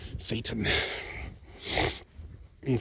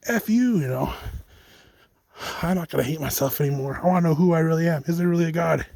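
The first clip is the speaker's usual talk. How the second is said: defiant outburst; 4 semitones higher than usual. Retold or imitated.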